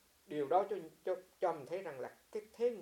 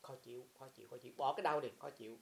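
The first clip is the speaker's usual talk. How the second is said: mindful noting; 2 semitones lower than usual. Shown as a demonstration. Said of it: "chánh niệm cái tâm khó chịu của mình".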